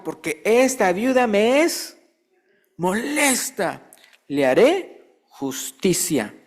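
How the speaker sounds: slow, drawn-out, weary judge; fed-up judge. Acted. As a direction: drag it out like a judge worn thin by her visits. Judge speaks within himself.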